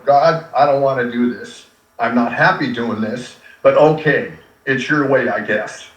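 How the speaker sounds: low, grudging surrender to God; reluctant prayer. Retold or imitated. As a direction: give in reluctantly, voice sinking. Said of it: "it's still reluctantly".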